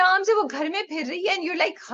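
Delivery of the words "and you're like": normal talking voice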